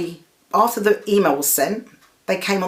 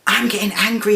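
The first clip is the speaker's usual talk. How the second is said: getting angry; 5 semitones higher than usual. Retold or imitated. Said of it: "she then got angry".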